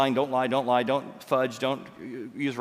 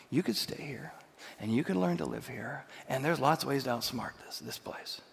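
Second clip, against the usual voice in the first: whisper; 5 dB quieter than usual. Retold or imitated. Whispered retold advice, tempting.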